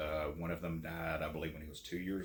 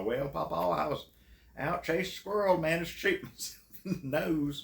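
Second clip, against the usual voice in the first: put-on sheepish kid voice; 10 semitones higher, 3 dB louder than usual. Retold confession to grandpa.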